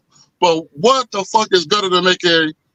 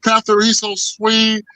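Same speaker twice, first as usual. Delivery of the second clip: put-on gushing girlfriend; 4 semitones higher, slower than usual. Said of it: "She's like".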